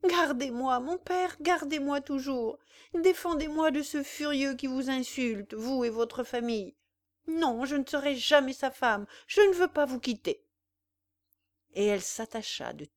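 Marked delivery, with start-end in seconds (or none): 0.0-10.4 high, loud, desperate plea; cling to her father in terror; a bride begging not to be handed over; hatred and terror. Acted. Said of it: "avec l'accent de la haine et de la terreur".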